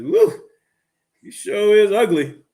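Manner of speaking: loud, high, drawn-out parrot taunt; whoop, then drawl it like a rude bird; hammed-up heckling parrot, high and slow; insulting parrot. Parrot insults woman again.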